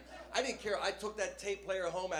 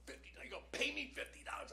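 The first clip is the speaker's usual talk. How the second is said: surprised; 9 semitones higher, 8 dB quieter than usual. Retold or imitated. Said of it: "I go".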